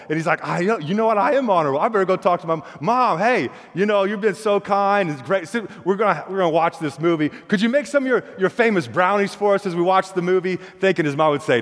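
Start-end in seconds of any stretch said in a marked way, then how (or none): 0.5-10.6 put-on sweet-talking kid. Boy sweet-talks his mom.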